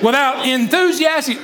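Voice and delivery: "Without enthusiastic" shouted high. Shown as a demonstration. Preacher rallying the congregation, shouting it out. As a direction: call out "enthusiastic" with gusto. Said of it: "But say it enthusiastic".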